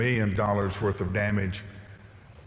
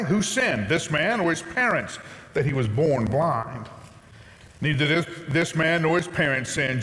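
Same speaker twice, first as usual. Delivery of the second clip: raised, measured reading of the Gospel; scripture reading; 3 semitones higher than usual. Acted. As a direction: read the Bible passage to the congregation. Pastor reads scripture aloud.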